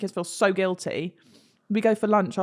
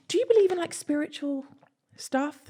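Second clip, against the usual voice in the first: tag; 9 semitones higher than usual. Retold or imitated. Timidly asking the owner, retold.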